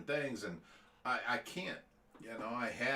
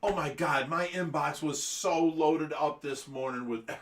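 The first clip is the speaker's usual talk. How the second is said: ordinary delivery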